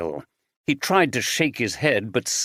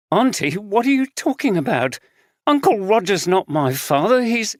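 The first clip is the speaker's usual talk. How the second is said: terrified; 9 semitones higher than usual. A narrator's reading. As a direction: back away in fear. Terrified girl backing away.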